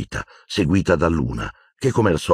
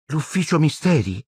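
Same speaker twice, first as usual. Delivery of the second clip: vague surprise; 9 semitones higher than usual. A narrator's reading. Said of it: "con vaga sorpresa".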